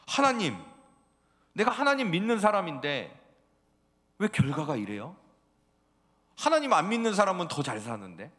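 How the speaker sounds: loud, high complaining voice to God; a grumbling churchgoer protesting his bad results; whining believer.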